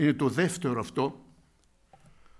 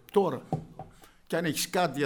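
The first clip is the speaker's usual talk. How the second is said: usual speaking voice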